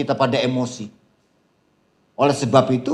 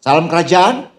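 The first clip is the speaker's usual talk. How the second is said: called greeting; 4 semitones higher, 5 dB louder than usual. Shown as a demonstration.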